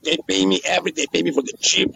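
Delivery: ordinary talk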